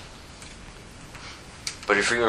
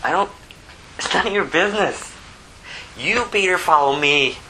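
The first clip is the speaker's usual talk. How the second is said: acted exasperated correction of a disciple; Jesus; 8 semitones higher than usual. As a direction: put him in his place, pitch jumping up. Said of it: "then Jesus says, Peter".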